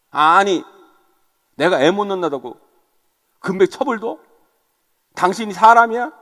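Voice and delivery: mildly acted wifely indignation; mock reproach, rising at the end; acted angry accusation. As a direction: lash out at your husband, half in earnest. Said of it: "쏘아붙였다고 생각해 보세요".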